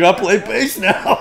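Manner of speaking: lightly mock a friend's announcement; amused impression of a naive buddy; imitating proud friend. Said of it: "He's like".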